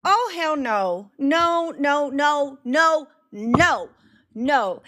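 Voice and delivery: indignant string of refusals; appalled refusal. Real, not acted. Reactor refusing the lawyer's bad faith argument, appalled. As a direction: reject it outright in disbelief.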